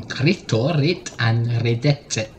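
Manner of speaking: slow hammed-up Italian accent on the names; mock Italian accent. Podcaster slips into an Italian accent for the sloth names. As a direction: lightly put on an Italian accent, drawing it out. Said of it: "why I'm putting on an Italian accent".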